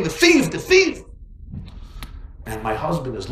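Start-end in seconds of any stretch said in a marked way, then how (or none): 0.0-1.0 high jeering chant of the crowd; mocking crowd.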